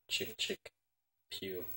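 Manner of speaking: mouth-made cock and shot of a gun; imitated gun noises. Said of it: "This is my impression of Clint Eastwood".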